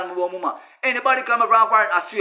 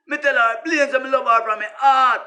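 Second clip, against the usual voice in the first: emphatic shout; 3 semitones higher than usual. Real, not acted. Insisting he loves Sister D.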